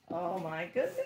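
laughing. Real, not acted. Opening the artwork, overwhelmed.

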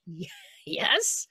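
stammered, high-pitched retold yes; hesitant questioning yes. Actress answers a singer's interruption, high hesitant yes. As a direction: answer high and unsure, breaking off first. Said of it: "And I was like".

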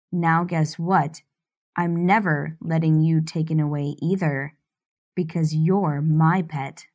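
domineering man. Acted. Stefan speaks to his captive.

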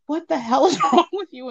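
high, incredulous mock scolding; imitated exasperated mother. Mom to her crying child, exasperated mock scolding. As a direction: act out an exasperated parent's question.

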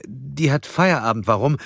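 high-pitched, uneasy answer; frightened nurse. A narrator's reading. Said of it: "die verängstigte Pflegerin". (verängstigte Pflegerin, hohe Stimme)

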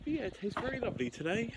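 put-on posh English voice; posh accent. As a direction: play a plummy posh gent. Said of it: "Why am I speaking like a posh twat?".

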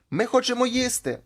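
high, thin pleading voice of hungry souls; squeaky plea. Acted. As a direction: squeak it like a begging ghost. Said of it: "там так пищать". (високий жалібний писк)

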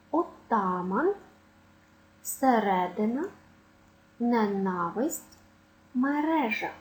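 оТАман, сеРЕдина, неНАвисть, меРЕжа; second-syllable stress. Shown as a demonstration. Teacher listing tricky nouns, stress on second syllable. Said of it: "мають наголос на другому складі".

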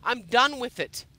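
fed up and shouting it; angry. Acted. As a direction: let the anger burst out. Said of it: "I'm pissed off right now".

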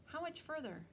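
out of breath from climbing the hill; a puffing, winded question; breathless. Acted. Sophie catching up to Will, asking breathlessly. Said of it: "she asked breathlessly".

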